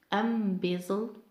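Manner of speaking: slow "Embezzled" as EM-bezzled; stress on first syllable. Shown as a demonstration. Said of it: "mark stress on the first syllable".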